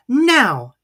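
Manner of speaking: high, loud call to pull; rally everyone to heave at once; loud command. A narrator's reading. Christopher Robin signals the big pull, high loud call.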